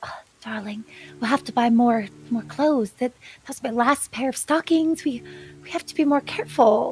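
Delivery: muttered aside to self. In a tabletop game, the player gives first aid in character, muttering under breath. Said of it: "But also under my breath".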